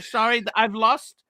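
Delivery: ordinary delivery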